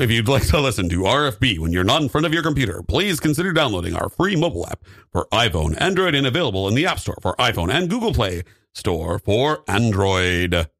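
brisk radio ad read. Pretend. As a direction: read it like a station promo. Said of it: "that was great, but".

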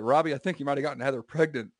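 measured Obama cadence; Obama impression. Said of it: "And I was like".

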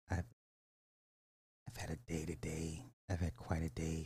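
low, hushed and soft; subdued. Real, not acted. Host confiding to viewers about the day, subdued. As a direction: drop to a quiet murmur. Weary lead-in to ASMR.

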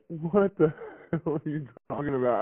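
mock incredulous, a brief laugh mid-question; laughing disbelief. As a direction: quote the disbelief with a laugh breaking in. Retelling their disbelief, laugh heard.

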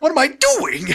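high mock voice with a laugh; laughing hammed-up Dixie; laughing falsetto Dixie. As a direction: shriek it while cracking up. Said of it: "Dixie is all like".

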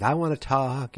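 imitated fawning plea. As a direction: gush over him, lightly acted. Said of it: "like, fawning over him".

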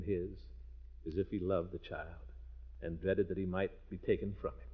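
lightly voiced storybook reading; unhurried read-aloud of Dickens for the kids; story narration. Uncle reading Dickens to the children, gentle storytelling narration.

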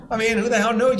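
high laughing aside. Real, not acted. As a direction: keep laughing through it. Still laughing at himself.

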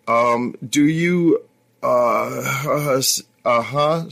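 talking with a full mouth; muffled words round a mouthful. Acted. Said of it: "Don't speak with your mouth full".

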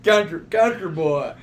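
slow, drawled-out country imitation; mock country accent. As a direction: tease with a slow country twang. Laughing imitation of co-host's country accent.

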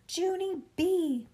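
high, slow, drawn-out scream of a name; screaming mother. A narrator's reading. Mother hunts for her hiding child, screaming. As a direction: yell the name, stretching each syllable. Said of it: "Mother screamed".

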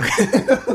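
high strained laugh at the heat; pained laugh. Real, not acted. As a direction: laugh through the burn. Reacting to burning heat.

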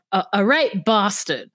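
attempted British accent on bastard. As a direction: say it with a put-on British turn. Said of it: "It was meant to be British".

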